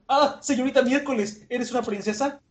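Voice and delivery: high, awed question in a put-on voice; amazed question. Mr. Nine asking Miss Wednesday, high awed voice. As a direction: gasp it out in disbelief.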